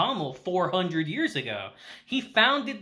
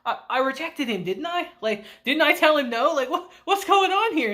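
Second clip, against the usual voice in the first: imitating rising, high-pitched bewilderment; mock freaking out; 6 semitones higher than usual. She questions herself after rejecting him, mock freak-out. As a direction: act out a flustered inner panic, lightly. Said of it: "she starts freaking out to herself".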